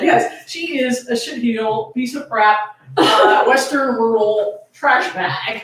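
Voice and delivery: slow, laughing mock insult; laughing tease. Real, not acted. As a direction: tease her while laughing. Teasing insult to co-host.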